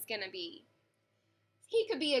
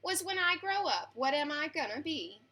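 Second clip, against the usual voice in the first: put-on lively read-aloud for children, rhyming bounce; story narration. A narrator's reading. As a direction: read it like a bedtime picture book. Reads picture book aloud.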